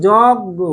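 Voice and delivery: যজ্ঞ stretched slowly as "jawg-go"; drawn-out demo. Shown as a demonstration. Teacher showing what can be written, যজ্ঞ slowly drawn out. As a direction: draw out যজ্ঞ, ending on round "o". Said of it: "অটার উচ্চারণ ও এর মতো".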